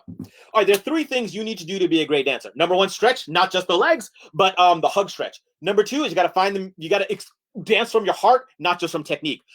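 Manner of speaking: rushed, animated presenter; hurried lecture with urgent list intonation; fast mock lecture. Shown as a demonstration. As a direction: race the timer through the key points. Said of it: "that was pretty fast".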